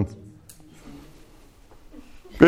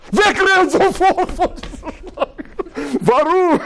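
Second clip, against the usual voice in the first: laughing while telling; 12 semitones higher than usual. Real, not acted. Laughing at Moses fleeing snake.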